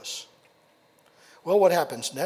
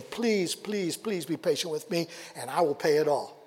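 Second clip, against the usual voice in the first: pleading; 3 semitones lower than usual. Acted. Servant begging master for mercy.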